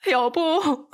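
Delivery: high, pleading as if about to cry; tearful pleading. A narrator's reading. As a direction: beg him not to leave, voice rising. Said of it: "울면서 매달렸어요".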